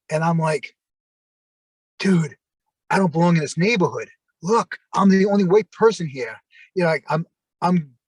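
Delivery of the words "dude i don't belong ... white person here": insistent, mildly worked-up pleading; retold ridiculous protesting. Drunk friend pleading with his friend, mildly worked up. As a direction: replay a drunken plea, rising on the last part. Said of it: "being ridiculous. I'm being stupid".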